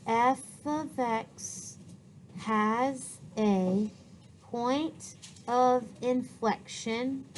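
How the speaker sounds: slow, word by word; writing aloud. Real, not acted. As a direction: draw out each phrase as you write it. Teacher writing her sentence aloud.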